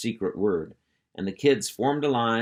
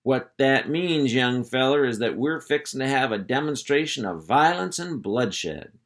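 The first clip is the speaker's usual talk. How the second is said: solemn sergeant; 3 semitones higher than usual. Acted. Hank explaining gravely.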